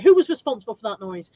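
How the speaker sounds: stern teacher. Retold or imitated. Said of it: "my teacher used to say".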